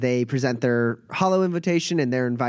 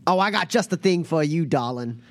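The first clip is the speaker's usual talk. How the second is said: silky, fawning shopkeeper; sly merchant voice; 4 semitones higher than usual. Acted. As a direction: sell it like a smooth merchant.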